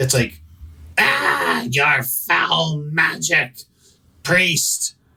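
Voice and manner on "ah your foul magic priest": screeching, shrieking monster cry. Speaker voices a monster reacting to a priest's magic in a game: screeching monster voice. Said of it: "It screeches".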